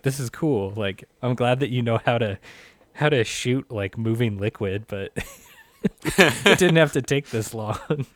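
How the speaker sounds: amused, laughing through the last words; laughing disbelief. Retold or imitated. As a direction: chuckle while complaining it dragged on. Retold own reaction, laughing.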